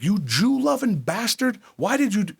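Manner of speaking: screeching mock tirade at husband; mock berating grandmother. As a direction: berate him like a raving old woman. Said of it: "She's like".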